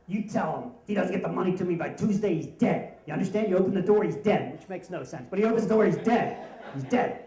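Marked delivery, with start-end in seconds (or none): 0.1-4.5 loud, menacing threat down the phone; threatening debt collector. Retold or imitated. Debt collector threatening a teen on the phone, loud and menacing. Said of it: "and they go". 5.3-7.2 loud, punching each dead; mock threat. Teller mocking the debt collector's threat, loud and emphatic.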